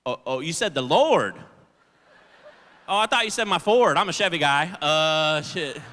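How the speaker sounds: hammed-up church enthusiasm; backpedalling. Applicant scrambling to sound religious for the interviewer. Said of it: "And I was like".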